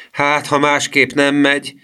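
high, slow mild wail.

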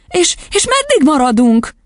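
put-on high, halting child's voice; anxious, high-pitched pleading; despairing question. A narrator's reading. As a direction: ask in desperation as a little girl. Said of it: "kérdezte kétségbeesve Matilda".

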